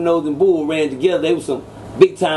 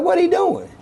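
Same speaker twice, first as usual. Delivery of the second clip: much higher, yelled disbelief; shocked shout; 13 semitones higher than usual. Retold or imitated. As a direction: shout it like you can't believe your eyes. Watching him take gun apart.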